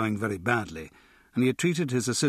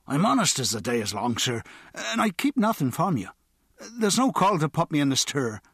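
Choky Bill, pleading; 5 semitones higher than usual. A narrator's reading. Bill begging Harrenby not to jail him, high and pleading. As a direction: insist you're honest, climbing in pitch.

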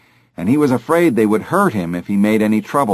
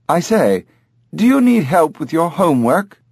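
talking bird; 7 semitones higher than usual. Acted. Talking bird speaks, narrator voices.

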